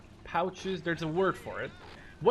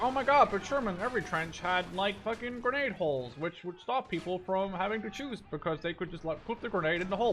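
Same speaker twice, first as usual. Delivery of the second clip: mocking commenters; 4 semitones higher than usual. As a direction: parody a nitpicking viewer correcting him. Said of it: "I know there's people like".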